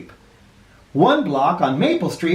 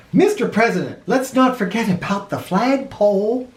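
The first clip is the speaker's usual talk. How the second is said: worried mayor; 5 semitones higher than usual. Acted. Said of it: "cried the mayor".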